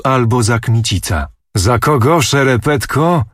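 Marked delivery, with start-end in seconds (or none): 1.6-3.2 higher, contemptuous retort; scornful anger. A narrator's reading. Prince scorns the uncle's answer, angry and high. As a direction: spit the insult back at him.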